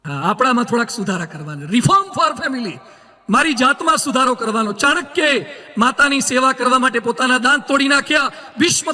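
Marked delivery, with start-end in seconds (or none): 1.7-2.7 slow slogan. Acted. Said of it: "slogan said slowly".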